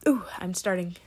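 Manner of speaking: whispered through hiccups and burps; hiccuping. Real, not acted. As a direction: caught by a hiccup mid-phrase. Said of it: "burping and hiccuping at the same time".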